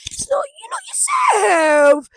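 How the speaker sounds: high loud plea to her own self; self-talk. Retold or imitated. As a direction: scold yourself tenderly. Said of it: "I'm like".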